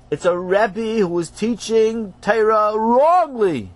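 slow, weighty dramatic reveal; grave slow reveal. Acted. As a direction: land it with gravity.

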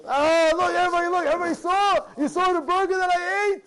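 mock a show-off who wants everyone to see. Rabbi mocking a person posting food photos, loud boastful.

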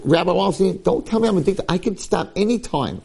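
mock protesting, voice pushed up; defensive protest. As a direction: act out someone insisting there's no problem. Acted addict protesting to rabbi.

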